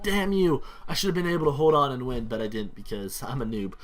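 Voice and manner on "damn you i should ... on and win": retold frustrated shout, higher and louder; venting at losing the match, half-playful; mock angry outburst. Losing to a friend in-game, mock furious yell. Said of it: "I was like".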